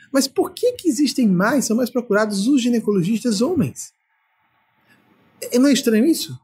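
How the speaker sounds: usual speaking voice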